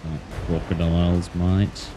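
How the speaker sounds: put-on light Australian accent, croc wrangler. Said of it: "I just sometimes slip into that accent".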